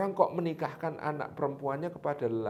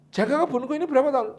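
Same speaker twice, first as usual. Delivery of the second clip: puzzled master; 10 semitones higher, 4 dB louder, faster than usual. Acted. Master questions the gardener.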